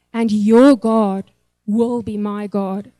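slow, halting vow, a lump in the throat; imitating a groom fighting tears, slowly; choked-up vow. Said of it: "he started crying and he swallowed like this".

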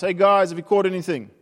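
retold call to shore. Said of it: "and he shouts".

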